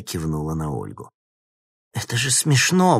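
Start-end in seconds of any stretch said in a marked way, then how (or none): 1.9-3.0 high, loud outcry of disbelief; exclaiming. A narrator's reading. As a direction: burst out that it's absurd. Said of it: "воскликнула Ожегова".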